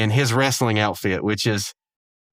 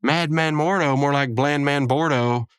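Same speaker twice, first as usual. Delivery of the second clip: slightly raised wrestler taunt; mock promo retort; 4 semitones higher than usual. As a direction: fire back a lightly hammed-up promo insult. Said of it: "he gives, like, this retort".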